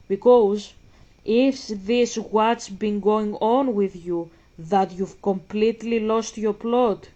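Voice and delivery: loud, slow, fed-up disbelief; exasperated outburst. Real, not acted. Streamer yelling at game character, loud and fed up. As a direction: lay into her like she's lost it.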